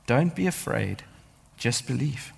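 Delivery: soft, calm reassurance; quiet comfort from Jesus; gentle reassurance. Retold or imitated. Jesus to the synagogue ruler, softly reassuring. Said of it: "told the synagogue ruler".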